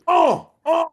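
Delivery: high, loud imitated grunts. Retelling how the coach laid into boys, imitated grunts. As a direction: mimic the coach going at them with grunts. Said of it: "he was just".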